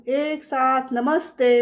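slow, drawn-out schoolchildren's greeting; class chorus greeting. A narrator's reading. Pupils standing to greet their teacher together, drawn-out chorus. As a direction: stretch it out like a class greeting in unison. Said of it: "मुलं उभं राहून".

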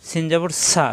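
সা with a firm, sharp hiss; strong sibilant on সা; hard s. Shown as a demonstration. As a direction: make the s of সা hard. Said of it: "শক্ত".

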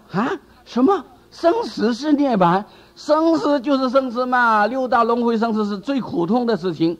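high, aggrieved protest that this can't be so; indignant disciple protesting. Retold or imitated. A disciple balks at the teacher's doctrine, high and aggrieved. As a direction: whine in disbelief at the teaching.

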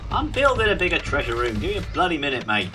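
exasperated high retort; annoyed. Real, not acted. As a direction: snap back at a nagging voice. Snapping back at game narrator.

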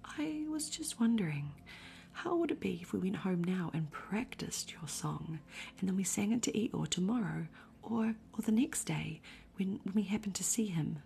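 hesitant small Piglet, stumbling over words; timid Piglet. Acted. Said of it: "a little timidly".

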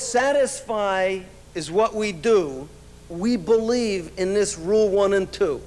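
slow, measured recitation of a little rhyme; sing-song slow poem reading, beat by beat; poem recital. Acted. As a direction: recite it slowly like a proud company verse. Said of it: "We have a short little poem".

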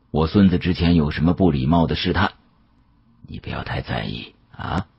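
put-on an elderly dealer musing with regret; a hint of a weary old man; old Yao's voice. Old Yao reassures narrator.

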